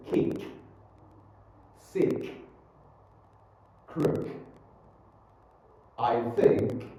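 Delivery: "Kick", "Sick", "Crook", "think" with released K; popped final K. Shown as a demonstration. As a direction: pop the K ending "Kick" and "think".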